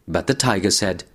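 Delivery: plain reading voice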